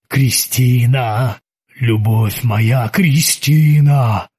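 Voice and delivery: slow low moaning ghost; dull moaning. Acted. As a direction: moan her name, stretched out. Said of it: "Глухо застонал призрак оперы".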